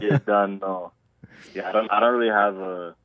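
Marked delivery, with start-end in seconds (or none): 0.0-0.9 lightly imitated Toronto slang accent; Toronto accent attempt. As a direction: have a modest go at a Toronto accent. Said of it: "a thick Toronto accent".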